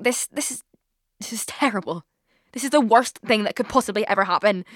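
a hint of hammed-up dismay at the news; mock despair. To boyfriend's scooter gift, a touch of mock tragic dismay. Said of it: "And I was like".

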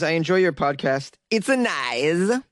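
lightly mimicked Kazakh comic accent, stretching the last word; Borat. Reading a Moroccan listener's message, in a Borat-style accent. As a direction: put on a goofy mock-Kazakh accent. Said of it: "that Borat accent".

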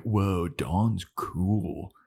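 drawn-out mock awe; awed kid. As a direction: stretch it out slowly, impressed. Kids acted as impressed.

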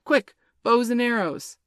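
high, loud urgent call; urgent command. A narrator's reading. Boys rushing to shoot as Peter wishes, urgent call. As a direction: call for weapons in haste.

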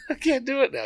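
laughing through the words; giggling. Real, not acted. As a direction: crack up while talking. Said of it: "You made me giggle".

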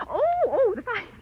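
high-pitched "oh" of dawning realization; flustered, high-pitched remembering; sudden recollection. Acted. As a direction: suddenly catch on, voice leaping up. Feigned sudden recollection of the fight.

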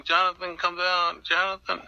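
mild retold call-out; retold yelling. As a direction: imitate calling up to a friend, volume held back. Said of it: "I was yelling".

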